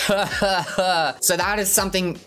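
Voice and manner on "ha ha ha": 1 demo laugh. Shown as a demonstration. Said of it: "you're like".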